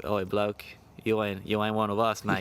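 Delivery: lightly mocked British-style accent; put-on British-style accent. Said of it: "rock up with an accent".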